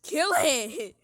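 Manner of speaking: loud, high attack cry; battle yell. Real, not acted. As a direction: shout as you strike. Attacking the creature.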